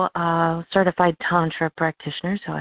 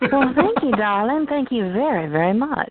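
breathy vintage purr; 5 semitones higher than usual. Real, not acted. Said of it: "your voice is sexy".

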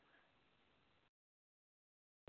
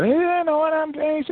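mock smug pastor. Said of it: "you got them kind of pastors".

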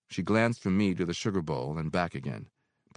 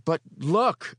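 eagerly; 12 semitones higher, 8 dB louder than usual. Acted. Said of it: "I said eagerly".

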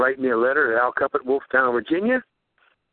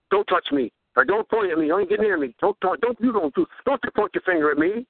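mock protest; 4 semitones higher than usual. Mimics an atheist's agitated protests.

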